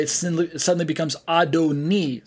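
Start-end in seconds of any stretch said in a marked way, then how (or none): 1.3-2.3 "Adoni" ending in an "ee" sound; different final vowel. Shown as a demonstration. Teacher contrasting it with Adonai, different final vowel. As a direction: say "Adoni" as ah-doh-NEE. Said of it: "Sounds like a different vowel at the very end".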